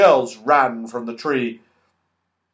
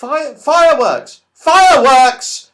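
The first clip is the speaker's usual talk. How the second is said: high, loud, thrilled shout; delighted shout; 12 semitones higher, 12 dB louder, slower than usual. Acted. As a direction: yell it out in delight, stretching the second. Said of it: "shouted the angry pixie in delight".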